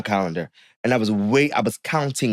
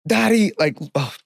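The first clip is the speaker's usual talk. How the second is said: mom's voice; 7 semitones higher than usual. Retold or imitated. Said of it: "And she's like".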